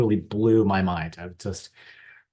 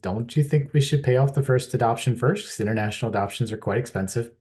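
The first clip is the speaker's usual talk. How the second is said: higher, louder wry comeback, quicker at the end; mock retort; 4 semitones higher, 4 dB louder than usual. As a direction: toss her words back with a dry smirk. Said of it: "And I said".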